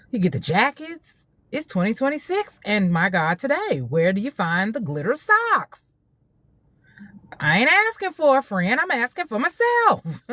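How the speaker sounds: high-pitched, comically exasperated rant; playful exasperation. Real, not acted. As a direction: demand answers in a high, lively mock complaint. Comic rant about finding glitter socks.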